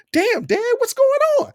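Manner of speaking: high-pitched cry of protest at dad; yelling at dad. Retold or imitated. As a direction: yell it out in shock at the shove. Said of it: "'cause I yell out".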